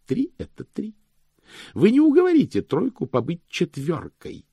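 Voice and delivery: high, emphatic pedant's voice; high-pitched, righteous clerk; stern, zealous chief cashier. Acted.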